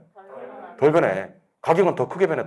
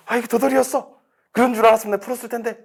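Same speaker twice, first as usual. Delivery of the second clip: high-pitched mock lament of a regretful student; 후회하는 수험생; 10 semitones higher than usual. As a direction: wail it high, imitating someone kicking themselves. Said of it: "어떤 분도 계시냐면". (높은 목소리로 아쉬워하는 수험생 흉내)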